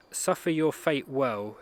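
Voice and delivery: "suffer your fate well" said slowly, each word weighed; slow and deliberate. Shown as a demonstration. Quoting his hero's line, slow and measured. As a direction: lay out the words one by one. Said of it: "repeats the line slowly".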